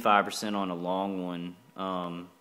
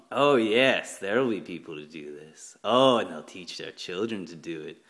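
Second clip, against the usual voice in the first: put-on a lightly done German villain accent; mock German accent. Mad scientist plotting in a meeting, mock German accent. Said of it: "like, a German accent".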